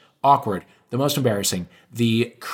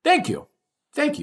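very high, tiny thank-yous; squeaky mock thanks. Host teasing the guest with squeaky thanks, very high. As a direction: squeak your thanks like a cartoon.

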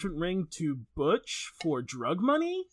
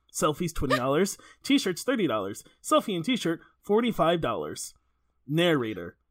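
reading a screenplay aloud at an even pace; script read aloud; 2 semitones lower than usual. Acted. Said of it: "there's a scene where she is like".

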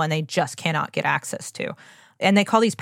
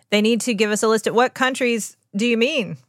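demanding questions; 5 semitones higher, 3 dB louder than usual. Pretend. Voicing demands to company.

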